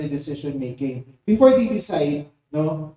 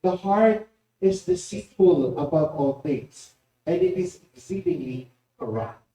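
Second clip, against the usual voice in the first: slow, grave Bible reading; scripture reading. Acted. Preacher reading Jeremiah to the congregation, slow and solemn. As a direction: read the verse slowly and solemnly. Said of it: "sabi sa Jeremiah chapter seventeen".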